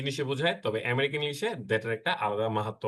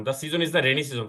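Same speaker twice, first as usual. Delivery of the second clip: slow example read; much slower than usual. Shown as a demonstration. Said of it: "অর্থের একটা অপূর্ণতা থেকে যেত না".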